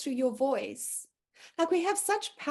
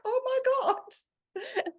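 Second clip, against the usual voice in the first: lightly voiced helpless husband; 11 semitones higher, much slower than usual. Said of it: "he's like".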